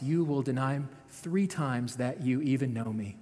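measured Bible reading to the congregation; scripture reading. A narrator's reading. Pastor reads Peter's denial to the congregation, in an even reading voice. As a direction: read the passage steadily, letting it land. Reads Mark's Gospel aloud.

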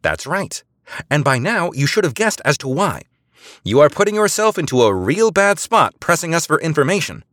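high, loud stern pressure; officer warned off by a stern agent; stern warning. A narrator's reading. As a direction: threaten him coolly.

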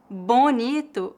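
bonito with a nasal "õ" before the n; slow, careful bonito opening on "bõ"; nasalized o. Shown as a demonstration. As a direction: nasalize the first syllable of bonito. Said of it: "a nasalização varia de acordo com o sotaque".

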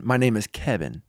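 imitated foreign accent with a b for the v; non-native English accent. Man with no English introducing himself, in non-native accent. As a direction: recite it like your only English sentence, accented. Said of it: "he couldn't speak any English".

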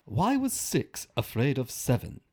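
slow, careful, faintly Spanish accent; Spanish-sounding accent. Shown as a demonstration. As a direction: try it slowly, sounding a bit Spanish. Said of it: "Now you just sound Spanish".

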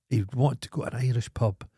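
ordinary talk, nothing marked

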